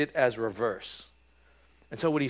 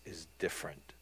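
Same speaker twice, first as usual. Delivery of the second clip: whispered emphasis; 7 semitones lower, 13 dB quieter than usual. Real, not acted. Hushed emphasis on key point.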